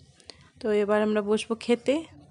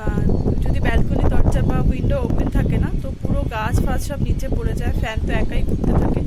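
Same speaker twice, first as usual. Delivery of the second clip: loud, raised voice against gusts; shouting over wind; 6 dB louder than usual. Real, not acted. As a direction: speak up over the wind noise. Still on windy balcony.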